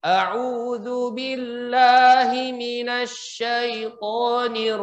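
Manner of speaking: slow melodic ta'awudz; recitation. Shown as a demonstration. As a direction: chant it slowly. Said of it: "bacaan isi adanya bagus".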